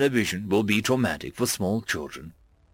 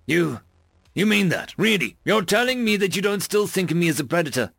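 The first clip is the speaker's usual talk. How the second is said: disbelieving hope; 6 semitones higher than usual. A narrator's reading. Tarver surprised, hopeful.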